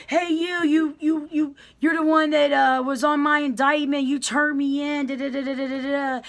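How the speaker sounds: single out the snitch who turned you in; inmate calling someone out. Retold or imitated. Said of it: "somebody knows somebody".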